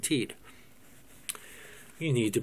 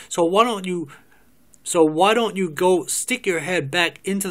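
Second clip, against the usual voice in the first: louder and building, jabbing every insult; angry tirade; 2 semitones higher, 4 dB louder than usual. Acted. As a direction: tell him off with mounting fury. Joyce tells Paul off.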